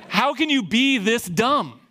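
high, slow mock exasperation; imitated officer, drawing out each word in disbelief; exasperated disbelief. Officer baffled by the students' stupidity, exasperated.

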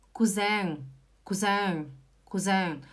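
"cousin" as koo-ZENG, French nasal ending; pronunciation model. Shown as a demonstration. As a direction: stress the second syllable of "cousin", nasal ng close. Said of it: "É a mesma coisa aqui".

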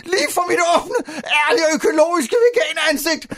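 hammed-up traumatised vegan; horrified lament. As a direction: build to a slow, anguished wail. Acted horror at seeing the milk. (forpint og dramatisk klagende)

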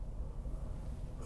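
long unvoiced yawning breath; big yawn. Real, not acted. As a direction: let out a deep yawn. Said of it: "I'm making myself yawn".

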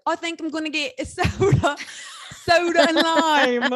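high, hammed-up English accent breaking into laughter; loud mock English accent, stretched out at the end; put-on English accent. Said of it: "Australian accents and English accents".

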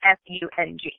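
letters said one by one; spelling it out. Shown as a demonstration. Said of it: "the next word is".

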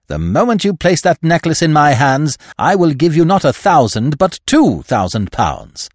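high, loud, emphatic promise; fervent uncle making a solemn offer; feverish intensity. A narrator's reading. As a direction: build urgently, slowing on the final sum. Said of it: "gripped it feverishly".

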